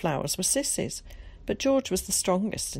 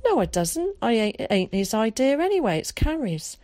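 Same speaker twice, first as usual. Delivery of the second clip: heated protest; 6 semitones higher, 4 dB louder than usual. A narrator's reading.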